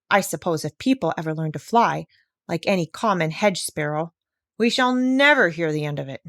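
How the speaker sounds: put-on a proud old bird who thinks people are fools; indignant old parrot.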